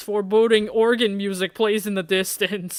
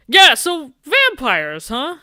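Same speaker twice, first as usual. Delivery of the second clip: higher and louder, slow, teasing drawl; mocking drawn-out repeat; 7 semitones higher, 6 dB louder, slower than usual. Teasing the nervous date about vampires, slow and mocking. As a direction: stretch it out to needle him.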